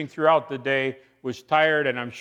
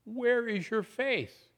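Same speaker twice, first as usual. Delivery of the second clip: gentle question; 9 semitones higher, 5 dB quieter, slower than usual. Acted. Jesus gently rebukes disciples.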